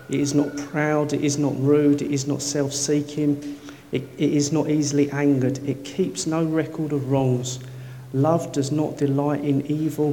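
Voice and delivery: solemn Bible reading; scripture reading. Acted. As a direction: read the verses with weight. Reads scripture aloud.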